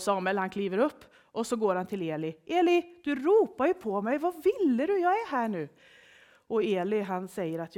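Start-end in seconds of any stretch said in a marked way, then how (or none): 2.5-5.7 high, lively, loud questioning; puzzled, insistent boy. A narrator's reading. Samuel goes back to Eli, puzzled and insistent. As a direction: press the old man for an answer.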